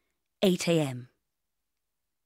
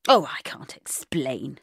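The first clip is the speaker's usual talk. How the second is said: huffy; 3 semitones lower, 4 dB louder, slower than usual. Acted. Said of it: "he said huffily".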